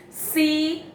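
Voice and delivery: "Cidade" in three separate syllables. Shown as a demonstration. Teacher separating syllables for the class, "Cidade" piece by piece. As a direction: break "Cidade" into ci, da, de. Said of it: "a separação silábica delas".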